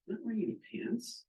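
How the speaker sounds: mock shock. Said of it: "you realize".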